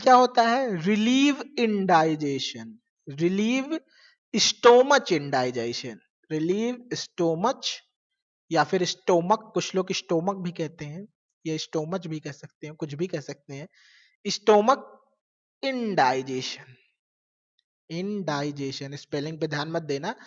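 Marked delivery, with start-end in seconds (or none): 0.8-7.6 very slow, word by word; spelling out the definition slowly; slow dictation. Shown as a demonstration. 14.3-18.9 very slow and soft; drawn out for students to write; dictating the word slowly; slow dictation. Shown as a demonstration.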